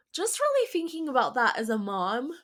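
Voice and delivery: talking through a yawn; words stretched by a yawn. Real, not acted. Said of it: "I yawned".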